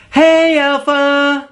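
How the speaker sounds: slow, dragged-out and dim; too slow. Shown as a demonstration. Mocking a man who talks far too slowly, slow drawl. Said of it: "you'll sound like you need protective headgear".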